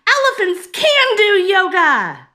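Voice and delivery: a high, very loud squeaky mouse scream. A narrator's reading. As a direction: cheer it out as a tiny mouse. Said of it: "Then Mary screamed".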